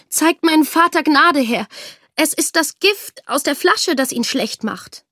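high, urgent plea for mercy; pleading. A narrator's reading. Daughter begging mercy for her father, pleading. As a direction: beg on someone else's behalf. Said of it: "bat die Tochter".

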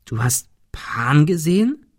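slow, hushed whisper of disbelief. Acted. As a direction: breathe the question in awe. Hushed shocked question.

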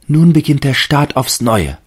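high, loud hopeful tree; the fir tree resolving. A narrator's reading. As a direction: promise yourself bravely like the tree. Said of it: "dachte der Baum".

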